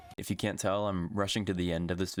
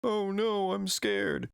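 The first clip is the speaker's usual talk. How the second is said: higher, hammed-up cartoon fright; mock scared; 10 semitones higher, much slower than usual. Pokemon facing a big snake, high mock fright. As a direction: squeal like a scared little monster. Pokemon voiced in silly recap.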